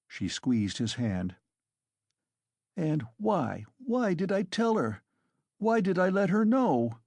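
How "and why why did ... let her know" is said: high, anguished self-reproach; despairing cry. A narrator's reading. Raskolnikov regretting telling her, high and despairing. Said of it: "he cried a minute later in despair".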